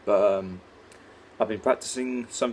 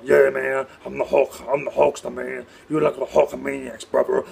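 loud wrestling promo shout; loud, brash Hulk Hogan promo; Hulk Hogan impression; 3 semitones higher, 5 dB louder than usual. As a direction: hype up the Hulkamaniacs, brother. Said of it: "Hulk Hogan".

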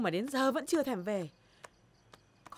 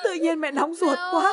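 anxious cry; 4 semitones higher, 8 dB louder, slower than usual. Acted. Mother anxious about missing daughter.

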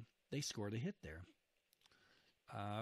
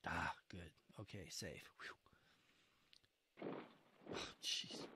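whispered, softer sigh of relief; softer relieved whisper; 6 semitones lower, 8 dB quieter than usual. Real, not acted. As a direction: breathe it out quietly, relieved. Relief after a close call.

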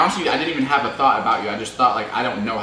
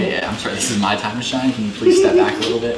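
upbeat host sign-off to camera; vlog outro. Acted. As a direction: wrap up the video for viewers.

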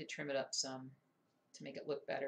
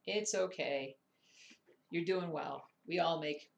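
reassuring; 7 dB louder, slower than usual. Real, not acted. Reassuring someone after a mistake.

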